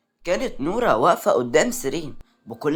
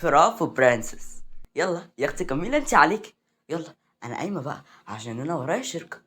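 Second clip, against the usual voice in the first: arrogant. Acted. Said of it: "سيرين قامت بغرور وقالت".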